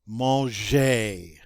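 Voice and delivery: "Manger" slowly, mon-ZHAY; soft G in manger. Shown as a demonstration. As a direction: model "Manger" with a zh sound. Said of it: "That G is a soft G".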